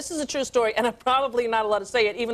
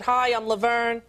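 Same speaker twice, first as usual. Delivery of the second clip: blurted slip; slower than usual. Retold or imitated. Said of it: "I said".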